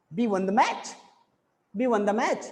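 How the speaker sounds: MATCH lifted at the end; a question rise on MATCH; rising intonation. Shown as a demonstration. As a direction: ask it with the voice climbing on MATCH. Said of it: "rising intonation आ जाता है".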